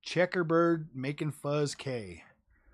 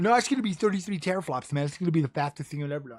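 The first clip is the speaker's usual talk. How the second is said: imitating hype crowd; much faster than usual. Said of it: "Everybody was like".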